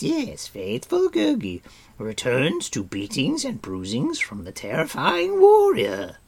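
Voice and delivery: high, loud, slow creature wail; devoted creature begging to stay; Gurgi, pleading. A narrator's reading. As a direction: build to a loud, high grovelling cry.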